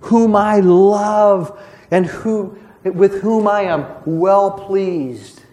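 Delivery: slow, measured voice of God the Father; booming voice from heaven. Retold or imitated. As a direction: let each word ring out slowly from heaven. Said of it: "the Father's voice came booming out of heaven".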